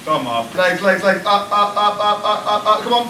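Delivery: urging on. Real, not acted. Cheering a lift on.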